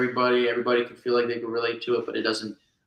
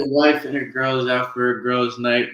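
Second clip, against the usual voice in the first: put-on Jersey accent; 5 dB louder, faster than usual. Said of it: "Yeah, I'm putting it on".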